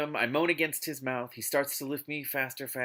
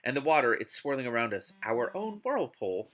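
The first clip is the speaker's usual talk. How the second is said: dramatic novel reading; expressive audiobook narration; story narration. Acted. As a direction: read it out like an overwrought romance audiobook. Reads a novel aloud.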